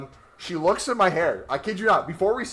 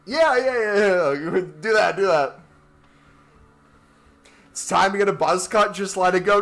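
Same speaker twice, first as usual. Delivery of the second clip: hammed-up Russian accent, pushy and cheerful; mock Russian accent; 3 semitones higher, 5 dB louder than usual. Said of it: "in such a strong accent".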